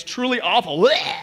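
disgusted "bleh" for comic effect; mock disgust. Bride confessing bad breath to her mom, mock disgust. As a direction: play up the revulsion.

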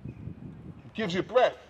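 slow, soft and hushed, almost breathed; slow hushed breath line. Shown as a demonstration. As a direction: let it sink in, slow and soft. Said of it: "Feel it".

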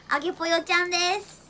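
bubbly gyaru-style announcement; japanese gyaru slang. Pretend.

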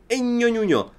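put-on high, cooing baby babble; mock baby talk. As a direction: coo it like a mocking baby.

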